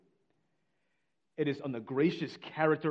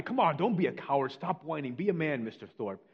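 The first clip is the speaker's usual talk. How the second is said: raised, goading jeer at first, easing off; egging him on; 3 semitones higher, 4 dB louder than usual. Retold or imitated. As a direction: voice mates goading a friend. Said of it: "his friends are egging him on".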